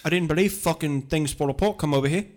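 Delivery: mock Kiwi accent; a hint of a Kiwi accent; New Zealand accent. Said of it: "It's New, New Zealand accent".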